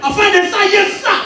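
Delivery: stiff recruit snapping answers upward; eager army recruit. Acted.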